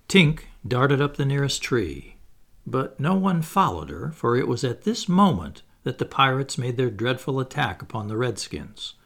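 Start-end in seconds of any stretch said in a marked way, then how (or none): none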